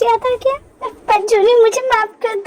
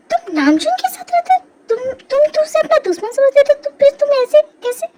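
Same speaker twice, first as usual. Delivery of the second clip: higher-pitched, stumbling surprise; stunned disbelief; 4 semitones higher than usual. Acted. Woman learning he lives with a former enemy, stunned. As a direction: stumble over the words in astonishment.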